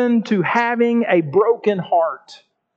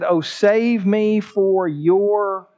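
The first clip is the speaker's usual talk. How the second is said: humble plea; much slower than usual. Acted. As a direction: let the prayer sink into humility. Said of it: "He said".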